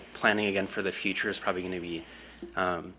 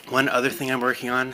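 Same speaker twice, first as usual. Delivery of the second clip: out of breath; 4 semitones higher, 5 dB louder than usual. Real, not acted. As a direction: still winded, short of air. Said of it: "sorry, I'm still catching my breath".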